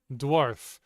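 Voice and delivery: "Dwarf" said slowly and clearly, d-w onset, long or, crisp final f; British dwarf. Shown as a demonstration. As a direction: model "Dwarf" carefully for a learner, one syllable. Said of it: "Remember the British English pronunciation of dwarf".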